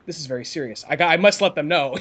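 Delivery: mock dry British accent. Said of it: "that tone".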